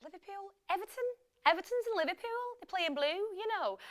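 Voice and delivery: high-pitched put-on Scouse; Liverpool accent. Shown as a demonstration. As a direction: do a playful, hammy Scouse. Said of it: "that was my Liverpool accent".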